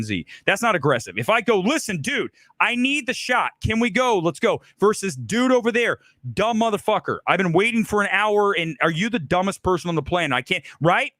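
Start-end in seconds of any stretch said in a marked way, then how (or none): 1.6-4.6 higher, urgent but respectful push; demanding, not aggressive. Shown as a demonstration. Director pressing the crew to get the shot, firm but fair. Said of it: "They sound almost the same". 5.2-10.7 berating. Shown as a demonstration. Director showing how a bully berates a crew member, mock-angry. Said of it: "Berating someone like that".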